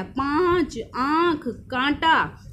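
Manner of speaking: पाँच, आँख, कांटा with vowels through nose and throat; nasalised vowels. Shown as a demonstration. Teacher listing anunasik examples, drawn-out nasalised vowels in पाँच, आँख, कांटा. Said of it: "इसकी आवाज़ नाक और गले दोनों से".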